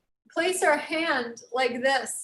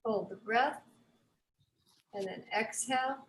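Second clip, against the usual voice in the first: calm, slightly lowered instructor voice with long pauses; guided breathing; 2 semitones lower, 4 dB quieter than usual. Real, not acted. Yoga teacher leading the class through breath pauses, calm guidance. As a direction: sparse breath cues, settling softly at phrase ends. Leads slow breathing practice.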